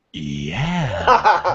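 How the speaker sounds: long, drawn-out "yeah". Acted. Biker pranking people crossing at a light, drawn-out "yeah". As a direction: stretch it out as a prank voice. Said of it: "I go".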